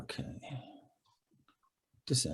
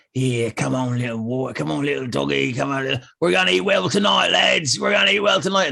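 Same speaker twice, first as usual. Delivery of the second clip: cooing, then gloating, a bit higher; dim pompous cartoon cop; 3 semitones higher than usual. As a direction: lure the dog, then gloat. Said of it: "he, he's".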